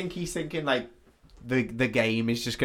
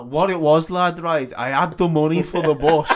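lightly voiced scrounger; 3 semitones higher, 3 dB louder than usual. Playing the scrounging drunk lad.

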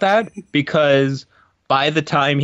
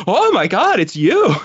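starstruck; 9 semitones higher than usual. Retold or imitated. Actress meeting her movie-star idol, mock starstruck. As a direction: imitate a gushing fan meeting an idol. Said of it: "Julia Roberts being starstruck by Bruce Willis".

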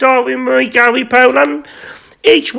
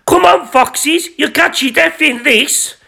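shouted; 5 semitones higher than usual. Acted. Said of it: "and he shouted".

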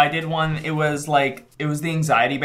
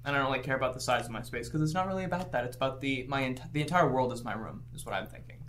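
smug enlightened; 2 semitones lower, 9 dB quieter than usual. Acted. Mocking own enlightenment.

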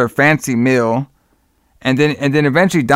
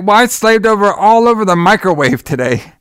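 higher-pitched retold indignation; mock pissed-off wife; 7 semitones higher than usual. Wife complains to Donald about dinner, mildly pissed imitation. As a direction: complain as an aggrieved wife, lightly acted. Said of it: "And she's pissed".

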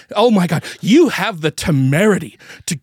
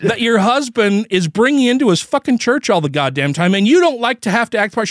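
retold rant; 3 semitones higher than usual. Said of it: "and I'm like".

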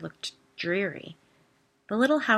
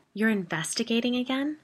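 disbelief; 5 semitones higher than usual. Acted. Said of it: "I asked in disbelief".

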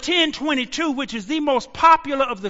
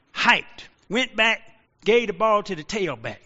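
normal talking voice

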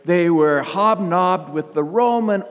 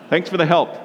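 laughing; faster than usual. Real, not acted. Laughs at prompt from helper.

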